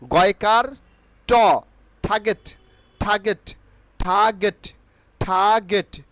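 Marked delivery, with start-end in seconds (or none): 2.0-6.0 "টার্গেট" drilled with aspirated t, no r; corrected pronunciation. Shown as a demonstration. Teacher drilling the spelled-out sound, corrected pronunciation. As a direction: repeat "টার্গেট" as "thaa-get". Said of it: "ঠয়াকারে ঠা".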